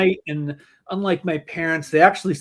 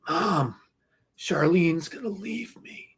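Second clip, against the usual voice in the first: dead serious; 3 semitones higher, 6 dB quieter, slower than usual. Retold or imitated. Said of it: "looked at her dead serious".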